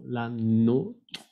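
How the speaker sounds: "la nôtre" with a long closed O, rising; circumflex closed O. Shown as a demonstration. Teacher models the possessive, "la nôtre" with closed O. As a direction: round the O in "la nôtre". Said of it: "con el acento circunflejo".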